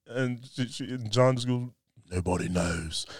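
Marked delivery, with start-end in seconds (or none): 2.1-3.1 a lower, brooding mock Jon Snow; lightly voiced Jon Snow, low and grave; Jon Snow impression. Host doing Jon Snow answering Arya, low and brooding. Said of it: "That's a great Jon Snow impression".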